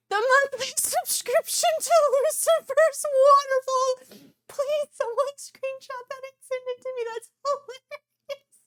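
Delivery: high, loud words broken by laughter; cracking up while reading a chat message aloud; laughing hard. Real, not acted. Streamer reading a viewer's joke to chat, laughing.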